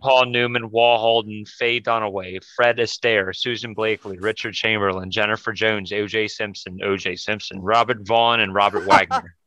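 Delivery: one long breathless list, no pauses; all in one breath. Shown as a demonstration. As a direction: rattle off the names without breathing. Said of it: "I'm gonna try to do this in one breath".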